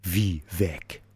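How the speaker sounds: low, soft bear question; a hint of a baffled bear; puzzled bear.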